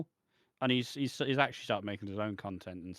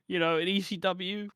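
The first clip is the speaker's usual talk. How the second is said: higher, louder, slow woeful wail; hammed-up tale of sacrifice; mock tragic Dreamer; 8 semitones higher, 5 dB louder than usual. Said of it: "Tommy Dreamer's like".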